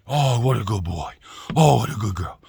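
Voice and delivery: lightly imitated dog praise; hint of a cooing pet owner; mock doting owner. Owner praising a dog that ignored him, lightly mocked praise.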